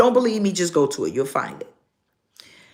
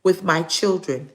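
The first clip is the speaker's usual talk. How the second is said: repeating her words. Retold or imitated. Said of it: "She said".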